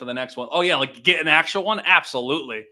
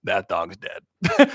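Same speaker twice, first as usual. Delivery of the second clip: slow, drawn-out "told you so"; knowing inner voice; 4 semitones lower, 5 dB louder, much slower than usual. Retold or imitated. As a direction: stretch it out slowly, dead certain. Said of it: "in the back of your head go".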